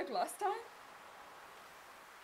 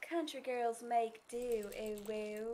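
light southern belle accent, drawn out; playful attempt at a southern belle; slower than usual. Shown as a demonstration. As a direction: try a slow southern drawl. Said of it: "Can I try and say that in a southern accent".

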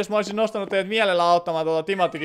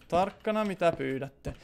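slow, much softer mock-ominous warning; 2 semitones lower, 7 dB quieter, slower than usual. Streamer warns viewers what they ask for, in a slow hushed mock-ominous tone. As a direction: drop the voice and draw out "Tarkkana" like a spooky threat.

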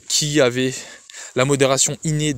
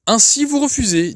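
much higher, louder, seething hiss; 10 semitones higher, 4 dB louder than usual. A narrator's reading. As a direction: hiss it out in contempt. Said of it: "d'une voix sifflante". (voix sifflante, très aiguë et forte)

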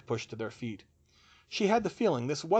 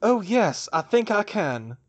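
raised, loud sneer; 9 semitones higher, 7 dB louder than usual. A narrator's reading. Crouch answers Hermione's taunt mid-duel, sneering. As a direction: sneer back at the challenge. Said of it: "Crouch sneered back".

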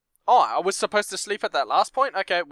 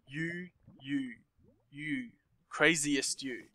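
eerie hush; 7 dB quieter, much slower than usual. Acted. Villain reveals he is you.

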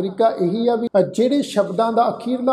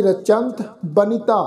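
drawn-out, syllable by syllable scripture reading; slow recitation; slower than usual. Shown as a demonstration. Teacher reciting the hymn slowly for the congregation. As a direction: lay each syllable down slowly and reverently. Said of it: "ਇਸ ਦਾ ਵੀ ਉਚਾਰਨ ਕਰਾਂਗੇ".

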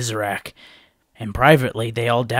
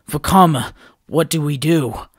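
pleading; 5 semitones higher, 8 dB louder than usual. A narrator's reading. Nokama pleading.

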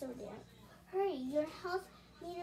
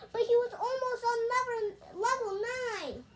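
higher, louder whining protest; high whiny kid; 8 semitones higher, 8 dB louder than usual. Acted. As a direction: whine like a kid whose game got ruined. Kid protesting lost game.

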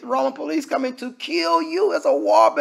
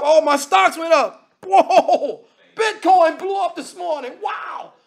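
higher and louder, hammed-up glee; mock excitement; 6 semitones higher, 4 dB louder, slower than usual. Preacher mocking a sinner thrilled about Bitcoin, hammed-up excitement. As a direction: gush like a lucky investor. Sinner celebrating his bank account.

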